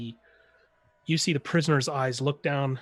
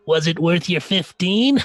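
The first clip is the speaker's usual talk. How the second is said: gruff guard voice; 2 semitones higher, 8 dB louder than usual. Acted.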